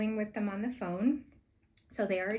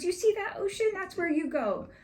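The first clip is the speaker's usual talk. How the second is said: much higher, loud mock threat; mean old chef; 11 semitones higher, 5 dB louder than usual. Chef warning the sales rep off, loud mock menace. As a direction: point her at the ocean and sneer it. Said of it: "He was so mean".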